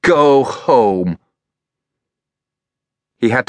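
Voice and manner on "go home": higher, louder stern command; harsh woman. A narrator's reading. Freya ordering Elliot away, harsh and loud. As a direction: drive the boy off sharply.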